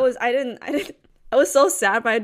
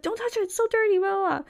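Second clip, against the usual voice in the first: high mock dad voice; a light parody of a scolding father; imitating dad; 10 semitones higher, faster than usual. Daughter mimicking dad forbidding touching, mock scold. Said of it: "my dad was like".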